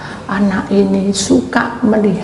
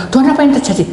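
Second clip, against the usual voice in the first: louder, higher voiced plea; spoken prayer; 7 semitones higher, 3 dB louder, much faster than usual. Shown as a demonstration. Preacher voices the same prayer aloud, higher and louder. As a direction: say the prayer out loud. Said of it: "Dalam hati saya berdoa".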